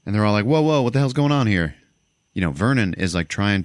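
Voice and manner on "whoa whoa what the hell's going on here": loud, high retold panic; startled whoa, hammed up; mock alarmed shout. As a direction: blurt it like a startled crew. Crew reacting in retold scene.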